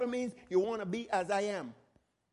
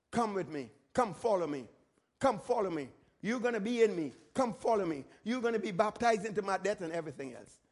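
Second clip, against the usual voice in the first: tender Jesus voice; 4 semitones lower than usual. Retold or imitated. Jesus prophetically inviting the disciples to follow, low and gentle.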